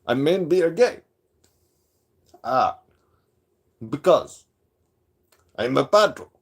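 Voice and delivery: halting mock accent with dramatic breaks; hammed-up caricature, word by word; Padro. Streamer finishing his parody of a rival, mocking impression. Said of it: "Did I pull that off pretty good?".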